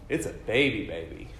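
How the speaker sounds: put-on "baby baby" said as one emphatic unit; emphatic doubling. Shown as a demonstration. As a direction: stress both words of "baby baby", the first one leaning harder. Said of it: "It's an emphatic".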